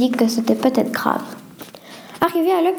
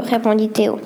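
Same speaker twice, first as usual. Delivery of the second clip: usual speaking voice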